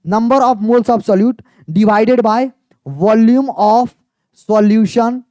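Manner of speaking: very slow, word by word, letting students write; slow dictation. Shown as a demonstration. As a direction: spell out each word of the definition. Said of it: "teacher dictates the formula slowly". (बहुत धीमे, शब्द-शब्द बोलकर लिखवाना)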